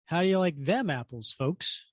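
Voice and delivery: THEM lifted in "How do you like them apples"; stress on them. Retold or imitated. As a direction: lean on "them" as the bolded word. Reading the bolded comic line.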